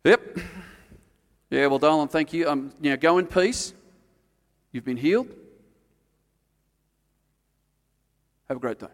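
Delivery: breezy, offhand brush-off in a mock Jesus voice; hammed-up careless send-off; mock dismissive brush-off. Mocking a careless Jesus who brushes off the weeping woman. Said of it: "do you think Jesus stood there and went".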